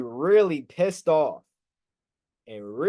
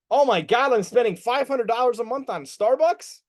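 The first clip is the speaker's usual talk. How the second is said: mock shock; 6 semitones higher than usual. Acting shocked at own spending.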